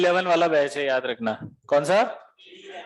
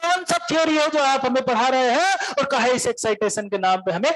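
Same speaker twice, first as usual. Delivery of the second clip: higher Bihari voice, building to a yell; heated Bihari protest; 4 semitones higher than usual. Retold or imitated. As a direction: argue hotly like an upset Bihari student. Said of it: "तो काहे चिल्ला रहे इतना".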